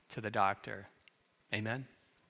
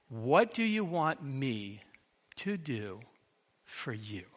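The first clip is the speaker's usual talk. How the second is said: slow, soft, tender question, fading softer; compassionate; 4 dB quieter than usual. Acted. Jesus asking the blind beggar gently, compassionate. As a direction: ask with all the compassion you have. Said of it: "With all the compassion Jesus could muster".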